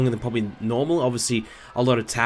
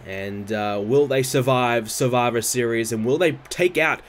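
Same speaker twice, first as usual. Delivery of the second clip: live ringside play-by-play; wrestling commentator; 3 semitones higher than usual. Acted. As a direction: call the match like a TV announcer. Live play-by-play of game match.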